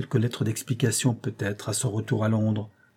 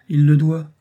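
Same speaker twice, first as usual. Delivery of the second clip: 1 grave; 5 semitones higher, 8 dB louder than usual. A narrator's reading. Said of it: "dit Robert gravement".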